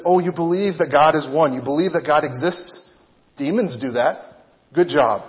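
dry mock congratulation of a believer; holy sarcasm. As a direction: retort with light, preacherly sarcasm. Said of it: "By way of holy sarcasm".

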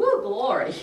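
loud whoop of praise; exultant praise. Real, not acted. Churchgoer moved by the supernatural kicking in, exultant praise. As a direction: burst out in joyful church praise. Exclaims in praise after own point.

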